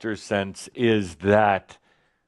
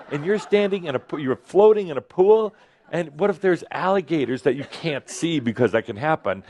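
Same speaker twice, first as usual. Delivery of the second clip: high, nagging, mock-worried scold; the mind fussing to pull you back; hammed-up anxious inner nag; 3 semitones higher than usual. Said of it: "I'm playing the part of the mind".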